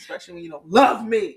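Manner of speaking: low, whiny creepy voice; creepy pouty voice. Pretend. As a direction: creep them out with a pouty whine. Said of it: "Her and this voice, bruh".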